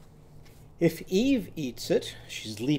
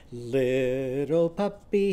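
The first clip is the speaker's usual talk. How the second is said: slow, drawn-out sing-song; 2 semitones lower, much slower than usual. Shown as a demonstration. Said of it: "it would be this way".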